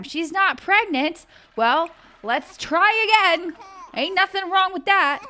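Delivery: high, slow sing-song; sing-song shrug. Real, not acted. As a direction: brush it off in a lilt. Reacting to negative pregnancy test.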